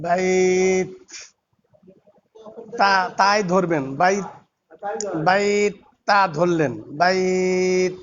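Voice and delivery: বাইত ending in a ত with a hint of breath, not a full থ. Shown as a demonstration. Teacher explains the ত to students, slightly breathy. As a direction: close বাইত on ত with a light puff. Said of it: "মানে না, থ".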